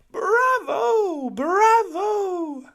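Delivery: high, loud cheering cries; loud, high crowd cheer. A narrator's reading. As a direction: shout bravo like an ecstatic audience. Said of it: "they cheered".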